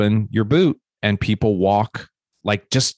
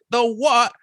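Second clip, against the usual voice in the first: surprised. Retold or imitated. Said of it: "He's like".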